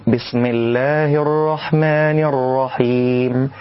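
بسم with the m between a and i; tilted mim. Shown as a demonstration. Teacher shows the halfway mistake. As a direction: let the mim of بسم lean between vowels. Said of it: "بين الفتح والكسر".

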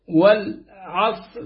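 والعصر, slow, with a vowelless ص; sukun on the sad. Shown as a demonstration. Reciter demonstrating the majority reading, sukun on ص. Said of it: "بسكون الصاد".

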